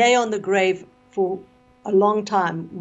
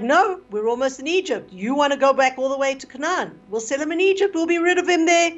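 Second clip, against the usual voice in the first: a lightly raised voice, set on selling him in Egypt; higher-pitched caravan trader; 6 semitones higher, faster than usual. Acted. Trader tells his partners to sell him in Egypt, higher voice. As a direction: pitch the voice up as the trader who refuses to turn back. Ishmaelite objects to going back.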